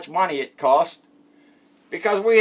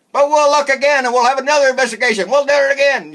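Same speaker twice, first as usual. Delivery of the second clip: louder, higher hammed-up promise; mock eager vow; 6 semitones higher, 4 dB louder, faster than usual. Mocking the investigator promising yet another probe, loud mock cheer. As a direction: bounce back with fake enthusiasm. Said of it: "he had to come out and say".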